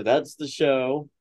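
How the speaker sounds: "that's the show" stretched out slowly; catchphrase sign-off. Shown as a demonstration. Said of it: "As we like to say".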